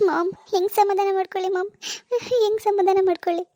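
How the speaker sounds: distressed, crying as she speaks; tearful. Acted. Daughter asks mother how she can calm down, tearful. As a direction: plead through tears, with little sobs between phrases. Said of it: "ಯಾಕೆ ಇಷ್ಟೊಂದು ಅಳ್ತಿದ್ಯಾ".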